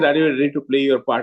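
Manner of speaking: plain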